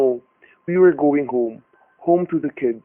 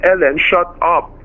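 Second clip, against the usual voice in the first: high, loud frantic command; husband shouting down his wife for her safety; desperate order; 4 semitones higher, 5 dB louder than usual. Acted. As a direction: silence her to save her. Husband silences wife to protect her.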